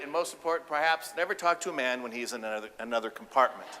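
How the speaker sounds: ordinary talk, nothing marked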